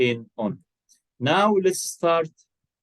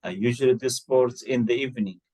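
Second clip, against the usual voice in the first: quick model sentence; much faster than usual. Shown as a demonstration. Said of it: "For example".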